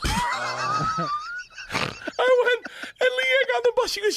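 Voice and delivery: high, laughing through the words; cracking up while telling it. Real, not acted. Bert laughs while telling his podcast host the story.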